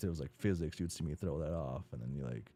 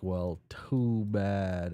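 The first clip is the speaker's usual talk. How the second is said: taunting refusal; 2 semitones higher, 4 dB louder, much slower than usual. Acted. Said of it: "she's like".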